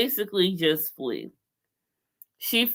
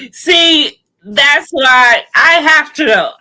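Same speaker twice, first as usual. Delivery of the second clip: laughing; 4 semitones higher, 8 dB louder, slower than usual. Real, not acted. Laughing, emphatic.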